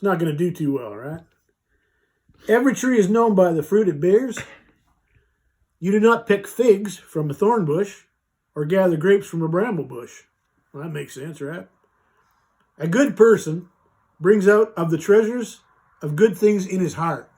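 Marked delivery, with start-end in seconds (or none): 2.5-10.2 slow reading. Shown as a demonstration. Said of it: "I'll read it slow and see". 12.8-17.3 slow reading. Shown as a demonstration. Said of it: "I'll read it slow and see".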